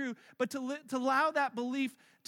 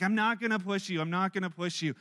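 put-on reassuring boyfriend; 5 semitones lower than usual. Boyfriend to nervous girlfriend, low mock reassurance. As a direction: lower voice, imitating a calming boyfriend.

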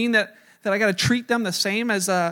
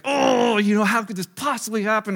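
a hammed-up cry of disbelief, raised; mock angry outburst. Pastor retelling his angry cry over the wrecked couch, mock anger. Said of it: "just seething with anger".

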